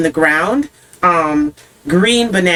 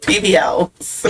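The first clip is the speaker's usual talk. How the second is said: laughing; slower than usual. Real, not acted. Cracking up at own wordplay.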